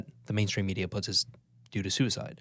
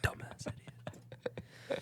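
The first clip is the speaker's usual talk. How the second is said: ASMR whisper; 13 dB quieter than usual. Pretend. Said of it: "doing A S M R".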